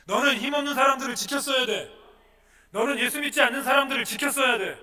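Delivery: loud, high, driving sermon voice; full-force preaching. Acted. Pastor preaching loudly to the congregation. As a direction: preach it hard to the back rows.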